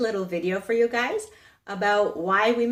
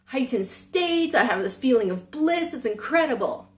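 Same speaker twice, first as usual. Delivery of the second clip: excited student; 5 semitones higher than usual. Retold or imitated. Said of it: "the student comes back to the master and goes".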